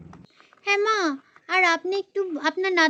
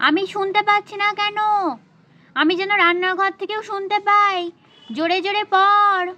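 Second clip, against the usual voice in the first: calling from the kitchen. Acted. Mother calls daughter from kitchen.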